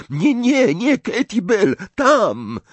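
very high, urgent correction; frantic urgency. Acted. Harry points Hagrid towards Katy, frantic. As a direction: blurt it out in panic.

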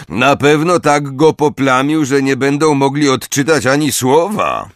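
high-pitched jeer; mocking. A narrator's reading. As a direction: keep taunting him before the crowd. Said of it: "powiedział drwiąco Syriusz".

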